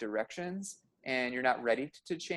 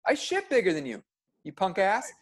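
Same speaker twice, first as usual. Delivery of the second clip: mock yell; 4 semitones higher than usual. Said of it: "He's yelling at me, like".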